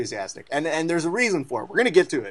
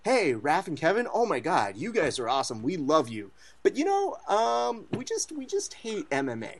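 imitating friends; 3 semitones higher than usual. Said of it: "telling us".

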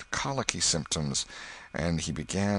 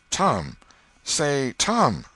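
calling out; 8 semitones higher, 5 dB louder, much slower than usual. A narrator's reading. Sid calls to groaning Tom.

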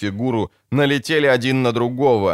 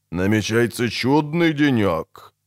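thoughtful. Acted. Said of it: "молвил Десятка задумчиво".

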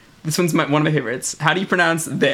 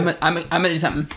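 rushed Michigan speech; much faster than usual. Shown as a demonstration. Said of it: "compress words".

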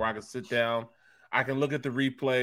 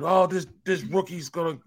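raised, higher mock rant at the rookie; retold angry yelling; 5 semitones higher, 3 dB louder than usual. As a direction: imitate a coworker yelling about the rookie. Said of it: "he started yelling".

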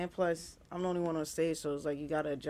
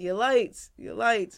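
calling out; 4 semitones higher, 6 dB louder, slower than usual. Retold or imitated. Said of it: "He's like".

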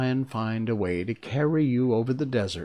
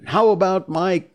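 higher, louder, worried question; anxious; 8 semitones higher, 5 dB louder than usual. A narrator's reading. Lion asks the wizard about his courage, anxiously. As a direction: ask with an anxious lift in pitch. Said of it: "asked the Lion anxiously".

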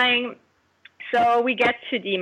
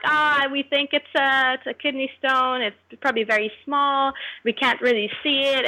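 staff voice; 4 semitones higher than usual. Retold or imitated. Quoting hospital staff.

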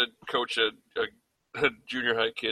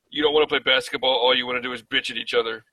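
retold yell; faster than usual. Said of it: "I called a timeout to yell at 'em".

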